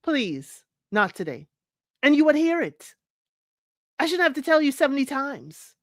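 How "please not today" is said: softly, calmly: please, not today; a calm, patient please; calm, gentle request. Shown as a demonstration. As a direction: ask nicely, no yelling. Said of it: "say it in a calm manner".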